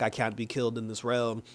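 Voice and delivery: boasting villain. Retold or imitated.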